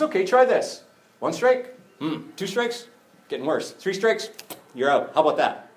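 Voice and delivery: high, teasing game-show voice; a teasing teacher, mock quiz; playful Jesus. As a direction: count the strikes up high like a quiz host.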